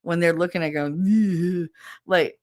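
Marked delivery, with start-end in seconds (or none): 1.1-1.7 imitated drawn-out girly "ew"; squeamish ew. Imitating a girl looking at worms, squeamish. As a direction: mimic disgust at something slimy. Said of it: "you all know the girl worm face".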